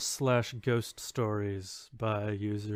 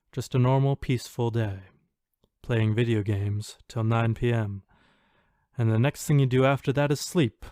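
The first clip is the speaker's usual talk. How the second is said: louder, spooky storyteller read of a ghost post; dramatic reading; 4 dB louder than usual. Acted. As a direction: read it like a campfire horror tale. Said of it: "I'll try to give a dramatic reading of it".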